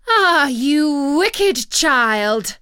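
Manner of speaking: slow, loud, furious witch's cry; angry cry. Acted. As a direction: hurl it at the child in rage. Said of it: "cried the enchantress".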